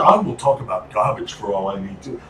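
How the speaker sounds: put-on British accent, indignant rant. Co-host ranting about rubbish as a Brit, mock-indignant British accent. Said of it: "I love doing this accent".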